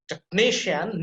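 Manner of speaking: "technician" with NI emphasized; stress on NI. Shown as a demonstration. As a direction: lean on the "ni" of "technician". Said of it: "that will be emphasized".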